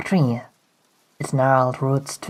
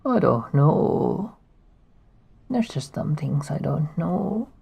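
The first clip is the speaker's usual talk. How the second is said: put-on old hermit voice. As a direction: hush it like a weary hermit. Voicing an old game character.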